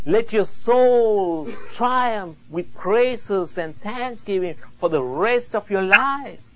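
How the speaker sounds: preaching exhortation. Real, not acted. Preacher urging the congregation to lifelong praise, exhorting.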